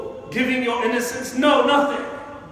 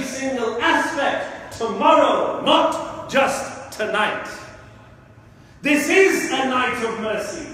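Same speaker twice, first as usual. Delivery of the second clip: emotional preaching; 2 semitones higher than usual. Real, not acted. Preacher warning brothers about tomorrow's test, emotional. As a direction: drive each phrase home with force. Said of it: "Forgive me if I get emotional".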